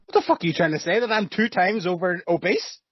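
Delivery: high-pitched indignant comeback, rising at the end; mock indignation. Friend teased about being too fat for the trampoline, mock indignant. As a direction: act affronted, voice climbing into a question. Mock offence at weight jibe.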